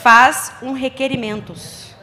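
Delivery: punchline delivery. Acted.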